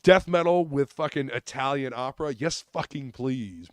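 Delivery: excited. Real, not acted. Raving about a favorite band.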